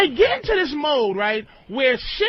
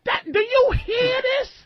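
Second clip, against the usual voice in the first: emotional outburst; 6 semitones higher than usual. Real, not acted. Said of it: "He sounds emotional".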